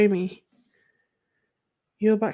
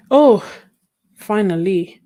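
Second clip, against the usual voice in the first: relieved; 8 dB louder than usual. Real, not acted. Camera finally works.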